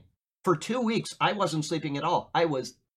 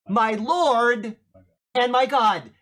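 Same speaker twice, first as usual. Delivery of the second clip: louder proclamation of Thomas's awed words; Thomas's cry; 7 semitones higher, 7 dB louder, much slower than usual. Retold or imitated. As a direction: call it out, louder, like the awestruck disciple. Thomas's cry voiced by preacher.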